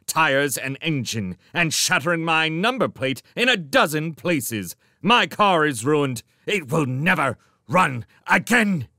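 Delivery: loud, high, mounting rage; outraged rant, punching out each grievance; angry tirade. A narrator's reading. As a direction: build to a furious shout. Magician rages about his wrecked car.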